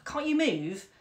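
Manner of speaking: put-on loud, high furious outburst from a twelve-year-old; a girl's furious high shout. A narrator's reading. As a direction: snap at her mother in a rage. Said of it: "said furiously".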